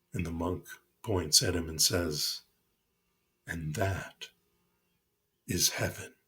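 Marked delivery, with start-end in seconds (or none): 3.5-6.1 soft. Acted. Monk's calm final teaching.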